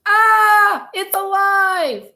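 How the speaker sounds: high, loud, stretched-out shriek; terrified scream. A narrator's reading. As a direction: scream in horror at the living doll. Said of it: "the man screamed".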